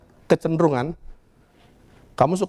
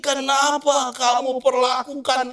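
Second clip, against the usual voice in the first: a slow, higher lament; 5 semitones higher than usual. Acted. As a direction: plead slowly like a grieving father. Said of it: "Dia menatapi". (Tuhan meratapi bangsanya, pelan dan sedih)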